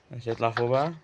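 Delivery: soft whispered aside. Real, not acted. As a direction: whisper it to yourself. Whispered aside while playing.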